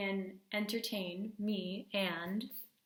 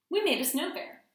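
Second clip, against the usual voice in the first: put-on higher and louder, eager child; bursting to tell Mom; excited kids; 7 semitones higher, 8 dB louder than usual.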